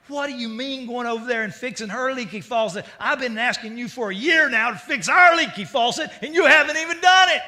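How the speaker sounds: rising into a loud, high yell; furious wife. Retold or imitated. Wife yelling at husband for fixing neighbor's faucet, furious. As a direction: let the anger build to a yell. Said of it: "just about to bite nails".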